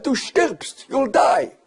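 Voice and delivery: high, loud shouted warning; retold warning shout. Boss warning the prisoners they will die, shouted high. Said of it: "He said".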